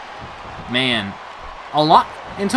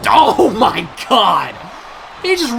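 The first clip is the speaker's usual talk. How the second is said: stunned shout; 3 semitones higher, slower than usual. Real, not acted. Wrestler ricochets off table.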